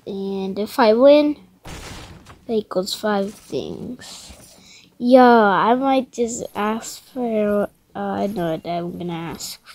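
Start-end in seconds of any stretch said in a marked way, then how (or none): 1.6-4.3 whispering. Real, not acted. Whispered aside.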